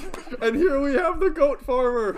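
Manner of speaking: high, loud announcer parody; slow, booming introduction with a laugh; boxing ring announcer. Acted. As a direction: present a fighter to the crowd, hammed up. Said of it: "like in a boxing match".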